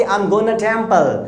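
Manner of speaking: slow, clear gonna for going to; slow teaching demo of gonna; short gonna. Shown as a demonstration. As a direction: teach gonna slowly, blended. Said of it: "short में बोलना है हम लोगों को कि".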